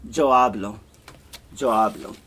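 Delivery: "Yo hablo" with the Y as a hard "dzho" in a Paraguayan accent. Shown as a demonstration. Teacher demonstrating her own Paraguayan accent. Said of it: "with my Paraguayan accent".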